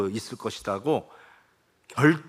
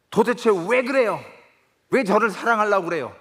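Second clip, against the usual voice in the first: higher, indignant son protesting; 따지는 아들 목소리; 7 semitones higher, 3 dB louder than usual. Acted. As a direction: press him with a hurt, demanding question. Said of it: "하고 따집니다". (새아버지에게 따지는 아들, 높고 억울한 항의조)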